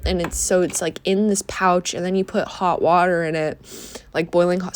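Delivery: sniffly nose while talking; sniffling. Real, not acted. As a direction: talk through a runny nose. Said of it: "sorry, I, I'm sniffling".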